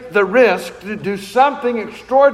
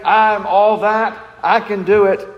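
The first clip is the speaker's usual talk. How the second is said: mock arrogance; 2 semitones higher than usual. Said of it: "He's not saying".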